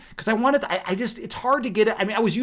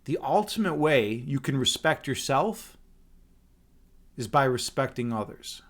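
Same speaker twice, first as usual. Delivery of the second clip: slow, lower delivery with a long pause midway; slow right down and let each phrase land; slow for emphasis; 5 semitones lower, 3 dB quieter than usual. Shown as a demonstration. Streamer repeating his motto on respect, slowly for emphasis. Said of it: "I'm gonna say this slowly".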